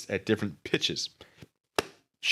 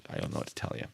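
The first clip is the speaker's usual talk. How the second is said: usual speaking voice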